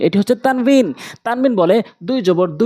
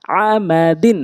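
syllables spaced out for learners; slow demo; much slower than usual. Shown as a demonstration. Teacher introducing the word to learners, slowly. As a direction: take the word slowly, part by part. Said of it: "প্রথমে আমি slow বলছি".

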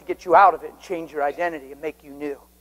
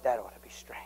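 soft repeat; 8 semitones lower, 14 dB quieter than usual. Real, not acted. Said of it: "I took it to heart and said".

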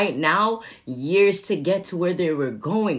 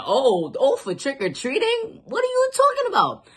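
incredulous disbelief; 5 semitones higher than usual. Retold or imitated. Friend says he's too old.

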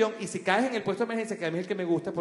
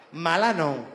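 threatening mom; slower than usual. Retold or imitated. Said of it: "me hacía así".

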